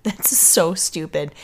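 giggling, slow and amused; stifled giggles. Real, not acted. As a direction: laugh breaking into the words. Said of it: "how do you not laugh?".

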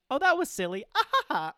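high, loud laughing brush-off. Retold or imitated. Friends laughing off their silly fight, high and loud. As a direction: toss it away with a laugh. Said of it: "and then".

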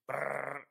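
rolled "brrr" gunfire noise; mouth-made automatic gun sound; imitated gunfire. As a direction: trill a quick burst of shots.

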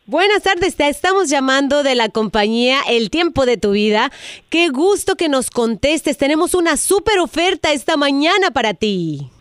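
upbeat sales pitch on the phone; telemarketer voice. Acted. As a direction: sweet-talk her like a telemarketer. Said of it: "es una broma telefónica".

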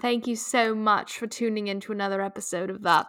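loud, hammy British host; British accent. Pretend. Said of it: "Should I do this in a British accent?".

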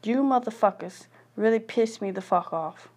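venting fury with hard punched curses; bitter angry rant. Real, not acted. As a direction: spit out every curse at the world. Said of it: "I am so mad".

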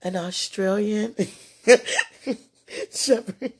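slow, deliberate "An Australian" with each syllable drawn out; slowly pronouncing "An Australian Shepherd" with a laugh. Shown as a demonstration. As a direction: spell out "Australian" slowly for a listener. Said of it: "I'm gonna say it slow".

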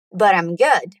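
"But I'm" joined as one word with a flapped t; linked sounds. Shown as a demonstration. Teacher has learners repeat, "But I'm good" with linked sounds. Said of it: "Did you notice the linking sounds there?".

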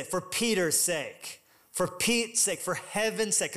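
"Peter's" y "Pete's" stressed in a slow, drawn-out delivery; stress on the saying. Shown as a demonstration. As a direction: lean on each "sake" phrase. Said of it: "we would say".

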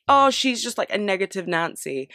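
lightly mimicked dismissive critic, starting high; mocking critics. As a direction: imitate a critic's put-down, high then falling.

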